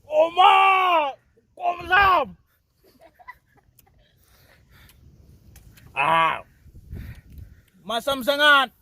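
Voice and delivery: shouting high at the sour taste; sour face. Real, not acted. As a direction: wince and yelp from sour fruit. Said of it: "Sangat masam punya barang".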